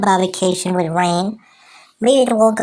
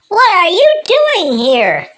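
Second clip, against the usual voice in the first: surprised; 7 semitones higher, 4 dB louder than usual. Acted. Surprised to meet someone.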